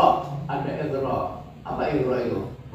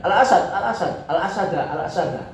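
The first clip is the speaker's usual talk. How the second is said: laughing warning; 5 semitones higher than usual. Shown as a demonstration. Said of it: "Awas, macan".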